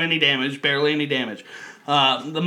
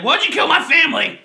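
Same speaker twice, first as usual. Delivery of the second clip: high, louder mock-wounded cry as Bigfoot; mock Bigfoot plea; 11 semitones higher, 3 dB louder than usual. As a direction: wail it like a wronged giant, higher. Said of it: "he's like".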